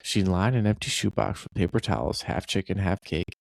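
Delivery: third-person story read aloud; story narration. Acted. Reads AI-rewritten story aloud.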